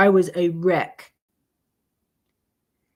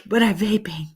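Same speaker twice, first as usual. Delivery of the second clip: high, slow whiny mock of a vaper; high mocking whine; mocking quitter; 10 semitones higher, 5 dB louder than usual. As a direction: sneer it like a smug quitter. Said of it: "it burns my ass when people are like".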